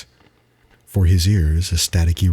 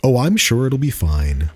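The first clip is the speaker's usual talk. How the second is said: higher, unsure reply; hesitant traveler; 6 semitones higher than usual. Acted. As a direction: brush off the warning nervously. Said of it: "Hesitantly, he responded".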